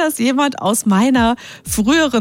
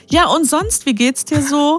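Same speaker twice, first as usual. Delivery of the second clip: imitating the doctor; 5 semitones higher than usual. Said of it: "Und dann fragt sie mich".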